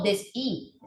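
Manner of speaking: deshi as des-i, with a plain vowel I; silent-H version. Shown as a demonstration. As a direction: say deshi with no consonant after des. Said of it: "yo no digo deshi".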